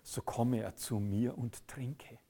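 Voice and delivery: slow hushed whisper; whispered invitation, slow. Retold or imitated. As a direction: breathe the invitation softly. Tender invitation of Jesus quoted.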